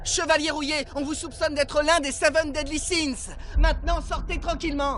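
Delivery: calling out officially. Acted. Soldier summons the Rusty Knight out of a tavern, calling out officially. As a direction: announce yourselves like soldiers at the door.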